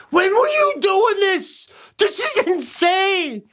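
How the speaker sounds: very high, slow, astonished cry; mock amazement. Parents hear the secret guitar solo, high-pitched mock astonishment. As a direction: imitate parents with minds blown, stretching the words.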